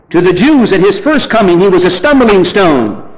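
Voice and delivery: high, loud sermon point; forceful preaching. Real, not acted. Preacher telling the church about the stumbling stone, forceful preaching. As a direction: drive the point home like a preacher.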